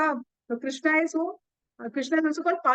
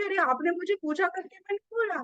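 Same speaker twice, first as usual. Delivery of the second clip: quick, higher protest of an innocent man; mild mock protest, fast and raised; defensive retort; 5 semitones higher, much faster than usual. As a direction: toss it back, hurt and a bit indignant. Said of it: "तो वो बंदा बोलेगा कि".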